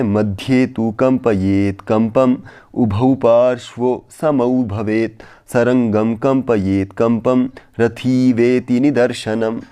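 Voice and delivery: slow, measured chanting of the shloka; Sanskrit verse recitation. Shown as a demonstration. Teacher chanting the verse for students, slow recitation. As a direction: recite each line slowly like a pandit. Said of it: "तो चलिए अगला देखते हैं".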